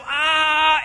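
drawn-out mock wail; imitated anguished cry. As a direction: imitate a heartbroken "ah". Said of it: "there's that breaking of his heart".

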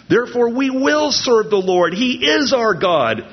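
high, rising declaration to a resolute finish; earnest vow. Acted. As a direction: pledge it fervently as a whole people. Reads the people's earnest vow.

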